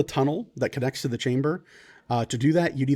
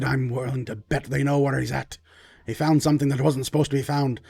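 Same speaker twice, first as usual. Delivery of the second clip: urgent lord. Acted. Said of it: "He goes".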